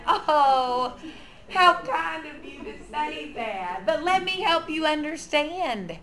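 sweetly gracious, modeled reply; polite with a smile. Shown as a demonstration. Nursery teacher answering a belittling remark, gently polite. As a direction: put a smile on and answer kindly. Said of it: "you gently and politely put your smile on".

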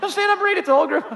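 high, laughing through the words; cracking up at the memory; half-laughed warning. Real, not acted. Laughing at students' reading.

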